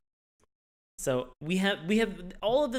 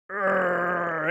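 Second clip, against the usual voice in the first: growl; 3 semitones higher, 4 dB louder than usual. Pretend.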